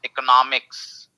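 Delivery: "इकोनॉमिक्स" as ek-uh-NOM-iks; stress on NOM. Shown as a demonstration. Teacher answers student's question, इकोनॉमिक्स stressed on NOM. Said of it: "subjects कैसे pronounce करते हैं".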